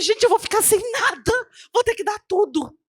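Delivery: high-pitched acted lament; retold dismay. Woman told to give away her land, retold dismay. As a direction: protest helplessly, lightly acted.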